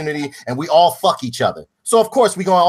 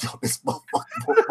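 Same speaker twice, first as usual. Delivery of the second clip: high, laughing fake complaint; laughing mock victim; 6 dB quieter than usual. Pretending to the police, laughing mock victim. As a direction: squeal it out through laughter. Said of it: "I'd be like".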